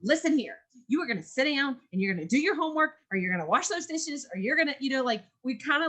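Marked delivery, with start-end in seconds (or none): 0.0-4.8 higher, faster scolding mom voice; stern mom. Retold or imitated. Fed-up mom ordering kids to do homework, stern scolding. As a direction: lay down the law like a fed-up mom. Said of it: "pull on that mom".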